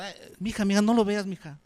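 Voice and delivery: a scandalised mum whispering mija, don't look; shocked mother. Acted. Mother shielding daughter from naked man.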